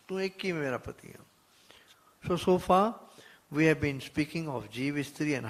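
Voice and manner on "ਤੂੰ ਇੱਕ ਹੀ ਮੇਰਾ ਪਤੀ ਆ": soft whisper. Acted. Voicing the bride's prayer.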